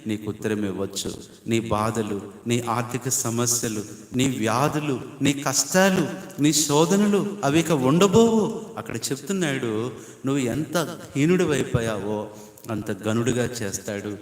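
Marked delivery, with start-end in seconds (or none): 1.5-8.6 building preaching climax. Real, not acted. Preacher assures his congregation their troubles will end, building to a fervent cry.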